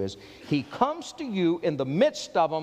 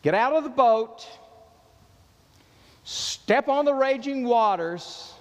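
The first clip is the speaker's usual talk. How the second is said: louder, bold summons; urgent call; 6 semitones higher, 4 dB louder than usual. Acted. Jesus calling Peter onto the waters, bold and loud. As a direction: call him out of the boat.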